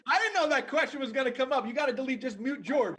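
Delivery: loud, high mock protest through laughter; laughing protest. Real, not acted. Guest caught out by a question about Freddie, laughing protest. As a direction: protest loudly, laughing, pitched well up.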